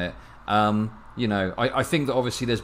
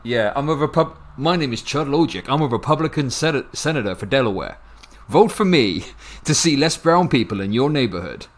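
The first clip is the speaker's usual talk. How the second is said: mock American politician's pitch, louder at the end; American accent; 4 dB louder than usual. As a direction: parody a Republican senator on the stump. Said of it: "can you do an American accent".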